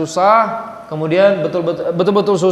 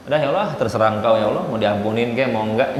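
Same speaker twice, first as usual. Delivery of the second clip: lower, softer, shrugging plea; resigned, careless prayer; 5 semitones lower, 4 dB quieter than usual. Retold or imitated. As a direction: give up on the prayer as you say it. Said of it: "Jangan kayak gitu". (doa pasrah tanpa kesungguhan, lebih pelan dan rendah)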